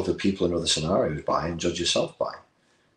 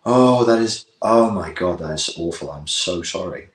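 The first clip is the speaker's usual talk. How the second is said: gushing sympathy. Acted. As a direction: pour out compassion on the client. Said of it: "as a therapist, would be like".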